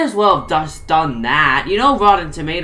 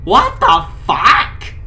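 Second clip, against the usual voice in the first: high, loud, drawn-out yell; outraged yell; 6 semitones higher, 6 dB louder, much slower than usual. Acted. Potato Head yelling back at Slinky Dog, high and loud. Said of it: "screamed the head".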